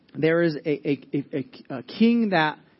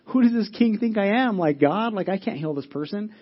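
a touch of freak-out, pitched up at first; mildly panicked retelling; 5 semitones higher than usual. Retold or imitated. King of Israel reacts to a request to heal, mildly panicked. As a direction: act out a flustered king, starting high. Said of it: "the king starts freaking out".

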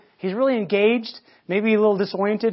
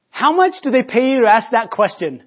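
loud, raised question; calling back up; 4 semitones higher, 8 dB louder than usual. Acted. Rabbi answers the guard's question with a question, calling up. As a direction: fire the question back loudly.

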